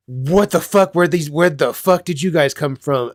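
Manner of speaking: put-on high, startled outburst as a kid; retelling a child's shocked surprise at a sudden room full of kids. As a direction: jolt up in disbelief at the crowd. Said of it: "such a shocking experience".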